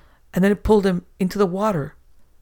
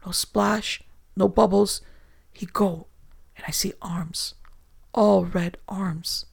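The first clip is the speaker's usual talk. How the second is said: higher, broken-English terrified sailor; a shaking man reliving the horror, rising pitch; whimpering foreigner; 4 semitones higher than usual. Acted. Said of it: "whimpered the other".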